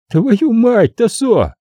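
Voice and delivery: high, drawn-out exclamation; drawling younger killer. A narrator's reading. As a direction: stretch the words out mockingly. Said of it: "протянул младший". (протяжно, насмешливо)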